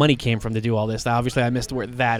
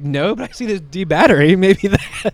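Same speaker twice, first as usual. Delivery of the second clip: voicing Harley; 5 semitones higher, 8 dB louder than usual. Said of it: "She's like".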